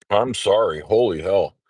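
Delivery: stuffy, congested voice. Real, not acted. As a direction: talk through a blocked nose. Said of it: "I didn't realize I was so congested".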